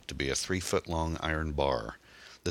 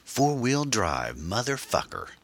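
high-pitched, drawn-out crow of excitement; exclaiming; 8 semitones higher, slower than usual. A narrator's reading. Young thug thrilled by the captured Jeep, exclaiming. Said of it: "Bummer exclaimed".

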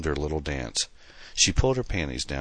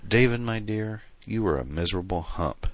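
a lightly sugary taunt, high on my dear; sweetly mock the ex, pitch lifted; 6 semitones higher than usual. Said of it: "seductively caressing herself".

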